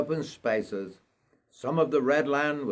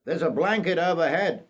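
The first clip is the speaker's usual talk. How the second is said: conductor; 5 semitones higher than usual. Acted. Conductor addressing the passenger.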